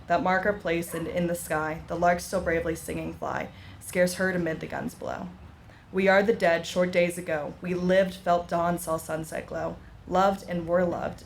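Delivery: measured, solemn reading of a war poem; poem recitation. Acted. Speaker reciting a war poem at a memorial ceremony, solemn.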